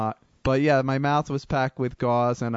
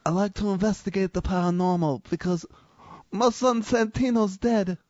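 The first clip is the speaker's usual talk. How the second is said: Godfather voice again; 5 semitones higher than usual. Acted. Host keeps his bad Godfather voice going for the co-hosts, half-sung. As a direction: ham up a mournful mob boss. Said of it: "You sounded like Vinnie Barbarino".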